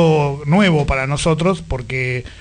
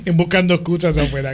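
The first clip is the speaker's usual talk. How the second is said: laughing; 3 semitones higher, faster than usual. Real, not acted. Teasing guest about smoking.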